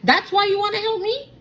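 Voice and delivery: hammed-up bitter retort to a helpful stranger; angry and bitter. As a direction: snap back as if he only wants one thing. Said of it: "to now being angry and bitter".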